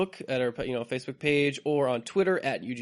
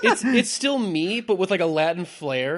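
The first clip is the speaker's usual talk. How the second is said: campy drag queen; 4 semitones higher, 6 dB louder than usual. Retold or imitated. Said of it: "It kinda makes you sound like a drag queen".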